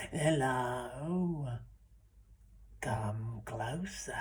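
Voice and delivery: lightly voiced creepy old fella, slow; creepy old man. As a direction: beckon with a creepy drawl. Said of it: "he had an awful creepy voice".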